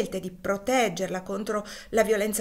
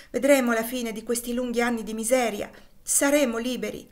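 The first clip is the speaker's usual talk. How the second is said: higher and louder, swelling with longing; rising hope; 4 semitones higher, 5 dB louder than usual. Acted. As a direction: build to the word liberi. Husband's hope for freedom. (il marito sogna la libertà, crescendo appassionato)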